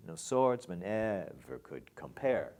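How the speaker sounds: SWORDSMAN stressed, could kept light; could unaccented. Shown as a demonstration. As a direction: read it with could unstressed. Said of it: "It's unaccented".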